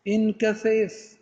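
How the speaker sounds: انكفف drawn out slowly, syllable by syllable; slow demo word. Shown as a demonstration. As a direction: spell out انكفف slowly for the class. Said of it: "بمعنى انكفف". (انكفف ببطء ومقطعًا مقطعًا)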